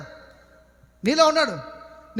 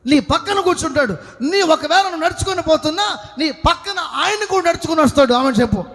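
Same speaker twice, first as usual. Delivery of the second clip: full-force preaching; 2 semitones higher than usual. Real, not acted. Preacher assuring believers God never abandons them, full-force preaching. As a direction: preach it out to the congregation.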